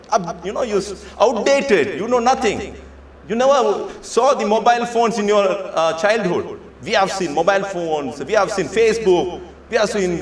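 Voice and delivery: put-on mildly arrogant young person lecturing a parent; sheer arrogance. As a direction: talk down to mom as if she knows nothing. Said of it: "sheer arrogance".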